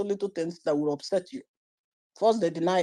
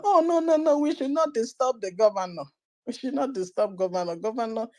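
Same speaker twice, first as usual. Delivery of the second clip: mocking a timid defender; 3 dB quieter than usual. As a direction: ham up a nervous apologist for the governor.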